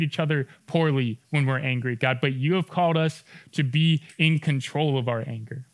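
a calm pastor's prayer for the congregation. Acted. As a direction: pray over the room gently. Closing prayer.

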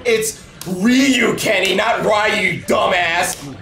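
shouting correction. Real, not acted. Friend shouting at buddy over the name. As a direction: yell the right name at your buddy.

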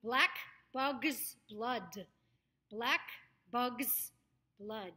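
BLACK clipped off with a sharp K, words set apart; clear K sound. Shown as a demonstration. Coach checks students follow, BLACK with a crisp K. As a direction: hit the K ending BLACK, then finish BLOOD on its D. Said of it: "make sure you get that k sound".

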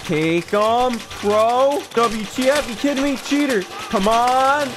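goofy high yelling character voice; goofy PewDiePie voice. Acted. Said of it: "my goofy PewDiePie voice".

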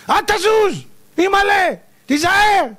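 high, loud frightened cries; panicked moviegoer. Retold or imitated. Viewer shrieking warnings at the film, high and loud. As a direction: scream in mock terror for the hero.

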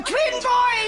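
high, bright burst of joy; thrilled announcement. Acted. Mother on the phone announcing twins, overjoyed.

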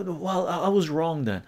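mock sheepish admission. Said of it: "I go".

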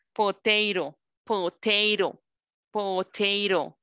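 "Potato" said slowly as "po-tey-ro"; slow teacher model, gliding vowel in "potato"; long A sound. Shown as a demonstration. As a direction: repeat "potato" slowly with a drawn-out "ey". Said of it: "Sonido A".

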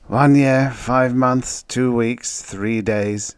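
starts high and loud, stepping down; counted-out answer. A narrator's reading. Outpost man counting his time served, descending steadily. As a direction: tick off each item, sinking gradually.

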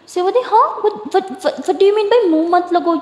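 high, laughing what what; laughing disbelief. Acted. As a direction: laugh through the question in amused disbelief. Laughing at partner's odd phrase.

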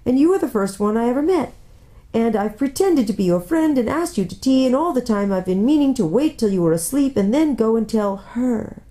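lightly voiced plaintive confession; guilty faun. Faun admitting his pretence to Lucy, guilty.

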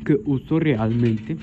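slow, low put-on voice. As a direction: drag it out in a low jokey voice. Repite con voz puesta. (voz fingida, grave y lenta)

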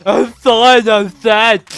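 high, loud cartoon princess voice; squealing princess; Blair voice. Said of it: "I'm gonna roll with that voice from now on".

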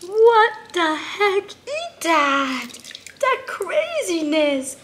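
put-on high, slow cooing to a baby pet; baby talk. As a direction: coo at him like a tiny baby. Coos over the toy.

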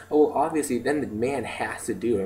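retold breezy, sexist assumption; matter-of-fact sexism, imitated. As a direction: imitate a friend stating it as obvious. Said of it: "it was just really sexist how she said it".

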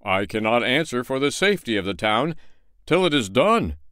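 a lightly voiced pompous official; mayor's voice. Mayor addresses the townsfolk, lightly pompous. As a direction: speak with civic importance. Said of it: "said the mayor".

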